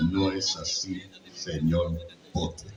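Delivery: slow, throaty, with dramatic pauses; cold slow sneer at Potter; Snape. Shown as a demonstration. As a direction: drawl the rebuke with long pauses. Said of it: "El de".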